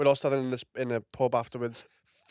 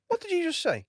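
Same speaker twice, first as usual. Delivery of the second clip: angry comic. Retold or imitated. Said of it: "Adam went".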